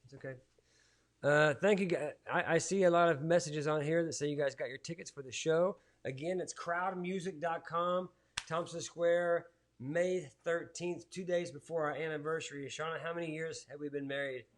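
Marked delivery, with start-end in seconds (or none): 6.0-11.9 slow promo read. Shown as a demonstration. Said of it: "where do you go to get the tickets".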